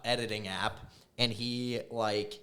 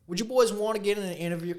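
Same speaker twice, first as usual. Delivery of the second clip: fake British accent; 10 semitones higher, 5 dB louder, faster than usual. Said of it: "speaking in his voice".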